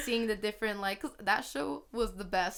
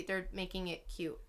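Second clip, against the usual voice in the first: hushed, voiceless disapproval; dismayed whisper; 10 dB quieter than usual. Real, not acted. Fan complaining about the Courage remake, appalled whisper. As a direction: whisper it like awful news.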